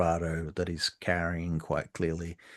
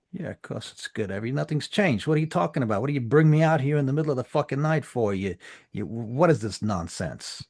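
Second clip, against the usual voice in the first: louder, fast indignant protest; defensive bluster; 6 semitones higher, 7 dB louder than usual. Acted. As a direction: overcompensate with bravado.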